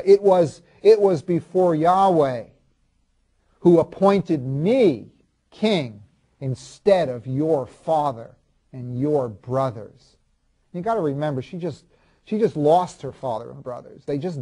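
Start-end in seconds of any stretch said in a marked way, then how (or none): 0.0-10.2 slow, emphatic angry retort, starting loud; hateful, hurtful. Acted. Husband blows up at his sarcastic wife, hateful and slow. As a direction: act out a wounding comeback, word by weighty word. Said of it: "I said the most hateful and hurtful things".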